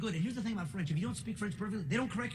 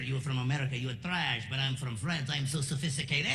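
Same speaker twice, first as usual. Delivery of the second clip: snooty French waiter; 6 semitones lower than usual. Retold or imitated. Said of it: "I had this waiter".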